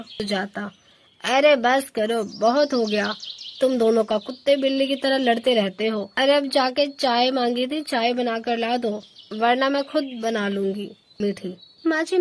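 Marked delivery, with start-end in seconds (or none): 1.2-10.5 sharp, louder scolding to stop the fight; scolding mother-in-law. Acted. Mother-in-law stopping the bickering daughters-in-law, loud scolding. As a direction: tell them off like a fed-up mother-in-law.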